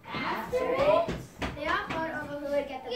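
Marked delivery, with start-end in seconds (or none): 0.1-1.2 high, drawn-out question; puzzled echo. Acted. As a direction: repeat it in disbelief. Narrator echoes puzzled.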